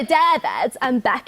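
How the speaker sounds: "David and Becca" said with the tongue out. Shown as a demonstration. Showing how she names her tortoises, tongue out. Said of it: "Kind of with your tongue out".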